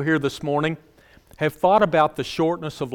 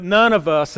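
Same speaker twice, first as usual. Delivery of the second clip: "none" hit firmly; stress on none. Real, not acted. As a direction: punch "none" in "none of us". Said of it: "and I emphasize".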